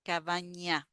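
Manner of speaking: cabaña with a clear ñ, ka-BA-nya; teacher modelling cabaña; model word. Shown as a demonstration. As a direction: show the ñ in cabaña. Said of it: "That's like ña".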